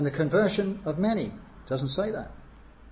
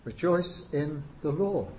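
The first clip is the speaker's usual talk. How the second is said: slow exhortation; slower than usual. Shown as a demonstration. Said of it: "it's an exhortation".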